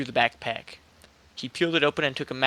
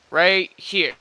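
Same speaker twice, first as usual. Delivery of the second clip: hammed-up stranger; 5 semitones higher, 5 dB louder than usual. The man points at the ground.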